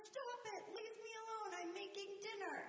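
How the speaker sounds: high, sharp mock snap at the kids; a busy parent brushing the kids off; snapping parent. Mother mimicking herself snapping at the kids over dinner.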